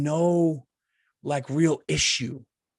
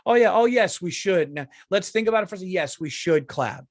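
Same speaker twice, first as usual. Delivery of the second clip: mocking hesitant crowd; 4 semitones higher than usual. Comic mocks audience hesitating to applaud, sarcastic. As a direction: parody a crowd unsure whether to clap. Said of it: "a crowd be like".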